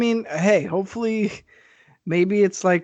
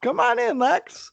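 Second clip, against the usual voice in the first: very high, quick, carefree voice; high, chirpy carefree host; happy-go-lucky Volkov; 14 semitones higher than usual. Retold or imitated. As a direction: sing it out like a cheerful servant who doesn't care.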